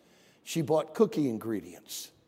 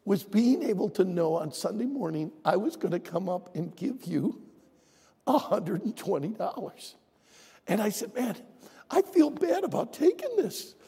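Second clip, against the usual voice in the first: holding back tears; 5 semitones higher than usual. Real, not acted. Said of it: "I'm starting to cry".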